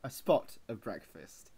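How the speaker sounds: put-on British accent; playful British accent. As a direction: say it like a chipper Brit off to breakfast. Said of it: "he does a great job at the accent".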